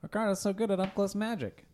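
mock amazed. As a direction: gush like a fake testimonial. Fake amazement at magic trick.

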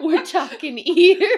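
mock Australian accent gone wrong; botched Australian accent. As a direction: aim for Australian, land in New York. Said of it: "That's New York".

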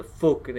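"fucking" said as "fookin"; Irish vowel on "fucking"; Irish-style fucking. Shown as a demonstration. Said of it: "it's, like, F O O K I N".

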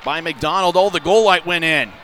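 rapid hockey play-by-play. Real, not acted. Live hockey radio call.

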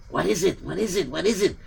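hushed, quiet reply; suddenly hushed. Acted. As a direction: drop the voice suddenly. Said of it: "Why are you whispering all of a sudden?".

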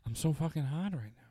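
Mark Wahlberg impression. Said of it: "My Mark Wahlberg impression".

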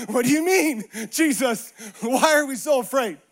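livelier mock disbelief after a laugh; disciples' incredulous retort. Disciples answering Jesus in the storm, openly incredulous. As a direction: throw the question back without the long pauses. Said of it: "probably say what the disciples".

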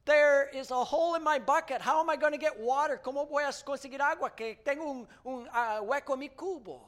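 high and loud mock despair; hammed-up wail of frustration; Henry crying out. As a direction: cry out like poor hapless Henry. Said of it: "cries out".

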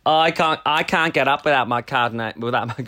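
put-on a light Australian accent; playful hint of an Aussie accent. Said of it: "I'm doing my Aussie accent".

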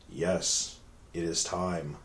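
low, hushed villain voice; deep, dramatic bad-dub villain; overacted anime dub. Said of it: "picks up the phone and goes".

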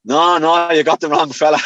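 Irish-accented mock denial. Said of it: "in an Irish accent".

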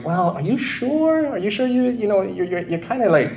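imitating a loving plea to a friend heading off a cliff; mock loving concern. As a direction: coax them sweetly like a worried friend. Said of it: "very lovingly going".

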